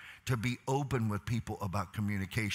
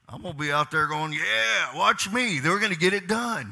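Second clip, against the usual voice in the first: high, loud, revved-up retelling; telling the worker he'll get it done anyway; fired-up determination; 7 semitones higher, 5 dB louder than usual. Retold or imitated. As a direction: bark back that nothing will stop you. Retold reply to worker, fired up.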